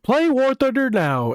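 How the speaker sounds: a hint of an ad announcer, slowed. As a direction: mimic a game ad tagline. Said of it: "it's gonna start going to".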